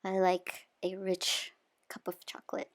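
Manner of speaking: soft whispered confession; whispering. Real, not acted. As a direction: whisper it with relish. Confiding her taste in chocolate.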